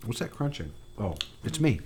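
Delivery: chewing while talking; mouth full. Real, not acted. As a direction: talk through a mouthful. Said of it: "I'm eating a vegetable".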